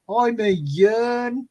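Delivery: very slow Black Country "yearn" for Ian; Black Country pronunciation. Retold or imitated. Mimicking a mate called Ian, drawn-out Black Country vowels. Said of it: "that's how he would pronounce".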